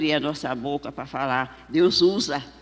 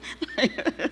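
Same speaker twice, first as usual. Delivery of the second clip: soft, high chuckle; short quiet laugh at a fond memory; real little giggle; 5 semitones higher, 7 dB quieter than usual. Real, not acted. Laughs at her own story.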